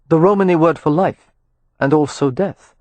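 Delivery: a hint of a smooth male voice; lightly voiced Rowan. Rowan greeting Amelia, lightly voiced courteous man.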